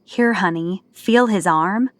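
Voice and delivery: slow mock imitation of his own words. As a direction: parrot him back, drawn out. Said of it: "who talks like that?".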